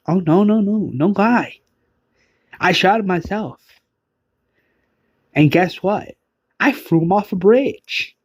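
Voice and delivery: high, mocking gloat over the kill; sing-song boast of a murderer; gloating villain. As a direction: relish every word like a proud killer.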